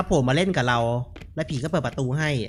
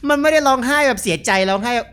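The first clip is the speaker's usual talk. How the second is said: laughing; 7 semitones higher, 5 dB louder than usual. Real, not acted.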